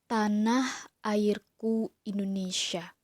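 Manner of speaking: slow, declaimed poem title with drawn-out words; expressive poetry recitation. Shown as a demonstration. Teacher demonstrating a poem reading to pupils, expressive slow recitation. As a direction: recite it slowly, like opening a poem. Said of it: "mau contohkan cara membaca puisi dengan ekspresi".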